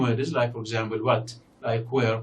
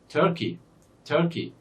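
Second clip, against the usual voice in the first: Turkey with a strong first syllable and short second; stress on first syllable; 4 semitones higher than usual. Shown as a demonstration. Teacher modelling the word for learners, first-syllable stress in Turkey. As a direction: lean on the opening of Turkey, drop the ending. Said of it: "the first syllable here is stressed".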